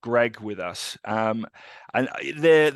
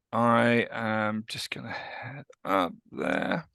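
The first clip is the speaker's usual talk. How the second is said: whisper; slower than usual. Real, not acted. Pre-recording aside to someone.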